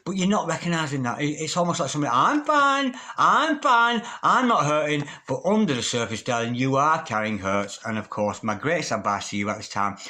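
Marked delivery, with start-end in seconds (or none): 2.1-5.1 high, louder mock "I'm fine"; squeaky pretend brave voice brushing it off; mock denial. Denying hurt, voiced quote.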